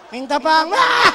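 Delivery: mock demand ending in loud high cry; blunt demand. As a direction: jump up loud on the last word. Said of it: "Tapi kalau minta nah kayak ini".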